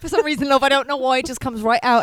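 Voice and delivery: joining in with mock British accent; bad British accent. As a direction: play along in a badly faked British accent. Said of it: "we get a British accent".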